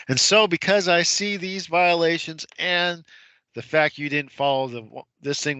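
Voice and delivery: hint of a solemn judge. Judge voiced dismissing the case.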